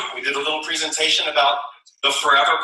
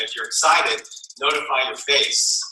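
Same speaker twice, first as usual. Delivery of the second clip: excited line. Shown as a demonstration. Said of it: "say it with excitement".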